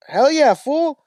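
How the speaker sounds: hammed-up Chicano homie cheering; cholo hype. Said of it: "And the guy goes".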